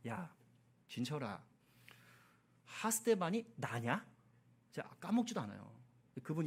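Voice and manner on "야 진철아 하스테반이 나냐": hushed, measured imitation of God speaking inwardly; a hint of a quiet divine rebuke; God's inner voice. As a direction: gently confront him, slowing on the question. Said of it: "마음속 음성으로".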